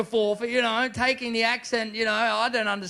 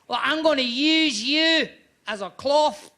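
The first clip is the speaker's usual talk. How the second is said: loud, slow Glaswegian threat; menacing, raised Glasgow voice; sinister Glasgow accent; 5 semitones higher, 5 dB louder, slower than usual. Acted.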